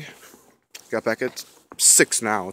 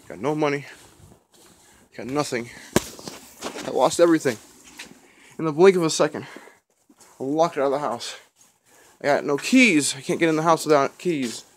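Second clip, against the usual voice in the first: hammed-up lament; 3 semitones higher than usual. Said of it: "hamming it up a little bit for the camera".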